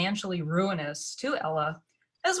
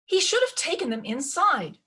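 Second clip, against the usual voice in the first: voice rising; 7 semitones higher, 3 dB louder than usual. Acted. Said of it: "Lucy's voice was rising".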